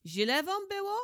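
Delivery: high, loud indignant question; lord's furious rebuke; angry rebuke. Acted. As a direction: scold them as you throw them out. Lord throws them out.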